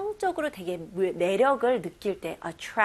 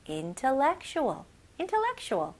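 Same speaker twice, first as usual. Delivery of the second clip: intellectual said quicker in one sweep; faster; 4 semitones higher, much slower than usual. Shown as a demonstration. Teacher speeding up intellectual for practice. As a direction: rattle off intellectual fast. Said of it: "좀 더 빨리".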